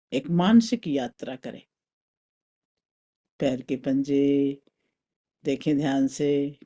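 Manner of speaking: calm, spaced-out meditation guidance; guided meditation. Acted. Teacher leading a mental journey through the body, guided meditation. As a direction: guide them inward with long pauses.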